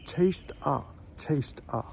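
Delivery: "chased a" joined, the T running into "a"; "chased a" said as one word; linked chased a. Shown as a demonstration. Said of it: "So we're gonna join those words together".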